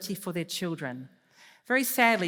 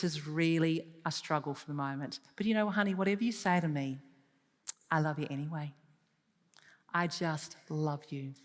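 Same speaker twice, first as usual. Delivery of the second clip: calm reassurance; 3 semitones lower than usual. Shown as a demonstration. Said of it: "when she comes back calm".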